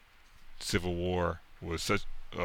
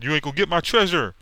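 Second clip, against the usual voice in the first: higher, louder, fast villain threat; hammed-up greedy villain; 10 semitones higher, 8 dB louder, faster than usual. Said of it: "He said".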